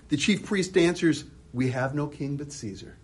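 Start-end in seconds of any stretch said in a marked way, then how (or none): 1.5-3.0 smug. Retold or imitated. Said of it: "We're just smug".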